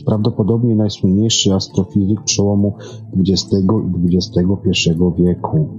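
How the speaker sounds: ordinary talk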